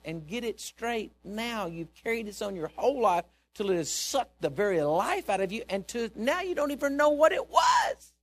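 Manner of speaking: exhortation building to a high shout; impassioned rebuke. Retold or imitated. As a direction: drive it up into a full preacher's shout.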